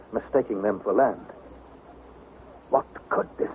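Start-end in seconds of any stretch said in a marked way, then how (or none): 2.7-3.5 awed hush. A narrator's reading. Narrator awed by the monster.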